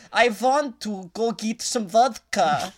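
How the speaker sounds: slow, heavy mock Soviet accent; mock Russian-German accent. Mocking Jon Voight's muddled villain accent, slow and heavy. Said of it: "that's what it sounded like".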